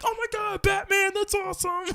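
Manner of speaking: very high-pitched mock admiration; imitated gushing. Class spotting his Batman pajamas, imitated gushing.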